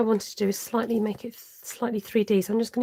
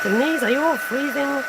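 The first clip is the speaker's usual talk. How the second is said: a light, hammed-up American accent, higher and louder; terrible American accent; 4 semitones higher, 5 dB louder than usual. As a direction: put on a bad New York accent for Denise. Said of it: "My terrible accent".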